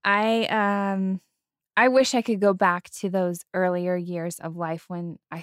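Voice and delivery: real choked-up effort not to cry; holding back tears. Real, not acted. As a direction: keep the crying just under control. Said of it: "I'm trying not to cry".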